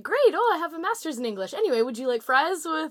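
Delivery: bitter mock cheer, starts high; sarcastic waiter upsell. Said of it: "And he's like".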